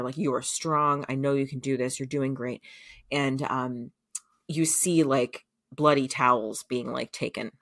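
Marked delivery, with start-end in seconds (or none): 0.2-2.6 reassuring. Retold or imitated. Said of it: "he's saying to her".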